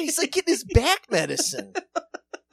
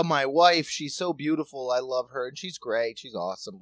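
moon over your wife in a lower voice; lovesick Commish; 6 semitones lower than usual. Retold or imitated. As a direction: commish murmuring about how great his wife is. Voicing Commish gushing about wife.

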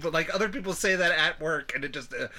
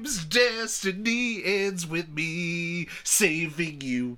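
Captain Hammer; 3 semitones higher, much slower than usual. Acted. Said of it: "More Doctor Horrible".

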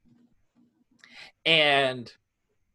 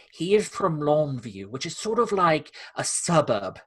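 lightly put-on British accent; posh London accent, lightly done. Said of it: "kind of Harry Potter-esque British accent".

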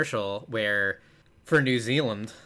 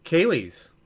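high, louder word in mock New Zealand accent; attempted New Zealand accent; 6 semitones higher, 5 dB louder than usual. Podcaster checking a nickname with co-host, attempted New Zealand accent. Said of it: "the one that they call Kiwis".

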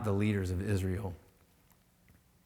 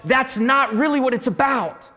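much higher and louder brush-off; mock dismissive thought; 12 semitones higher, 9 dB louder than usual. Preacher mimics the mind loudly dismissing the resurrection. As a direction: scoff it away.

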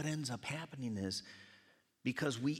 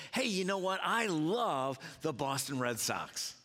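baseball fan. Retold or imitated. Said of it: "one of them says".

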